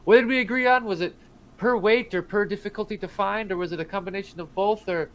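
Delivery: high-pitched rambling questions; flustered gnome. Acted. Gnome calling to the party as he runs away, flustered. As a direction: keep the pitch up as the questions tumble out.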